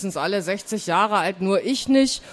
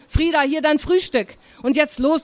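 higher-pitched, brisk aunt; impatient urging; 5 semitones higher than usual. Acted. Aunt hands over breakfast to a late child, impatient.

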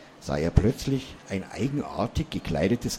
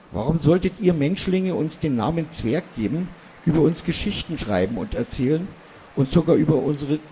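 higher, indignant little dwarf voice; a small dwarf lecturing the foolish human; lightly voiced dwarf, mildly indignant; Mani the dwarf; 6 semitones higher than usual. A narrator's reading.

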